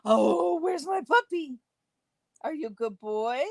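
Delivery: high cooing pet talk; talking to a dog. Real, not acted. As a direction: coo at the puppy. Calling the dog.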